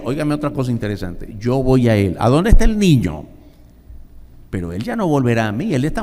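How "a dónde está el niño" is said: louder, higher question; raised question. Acted. Preacher to congregation, raised question. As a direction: call the question out to the church.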